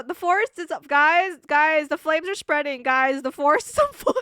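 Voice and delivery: loud, high mock-panicked warning; alarmed shouting that cracks into a laugh. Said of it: "you can just hear Honey go".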